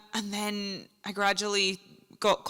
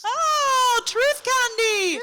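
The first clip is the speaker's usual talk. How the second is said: excited; 12 semitones higher, 5 dB louder, much slower than usual. Real, not acted. Delighted at getting candy.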